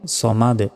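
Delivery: "সমাদ" with thick rounded "saw" and bounced d; full-mouthed s, echoed ending; heavy sad. Shown as a demonstration. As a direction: say "সমাদ" as "sawmad-e". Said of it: "সদ জবর হয় স".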